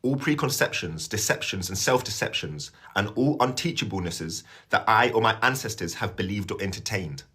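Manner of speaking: measured recited prayer; prayer reading. Acted. Reading a prayer to live viewers, recited prayer. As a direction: read a renunciation out as a prayer.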